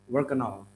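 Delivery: "work and all" as "work-an-all"; linked. Shown as a demonstration. Teacher models the connected sound, linked "work and all". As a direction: drop the D of "and" and link to "all". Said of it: "So it will be sounding as".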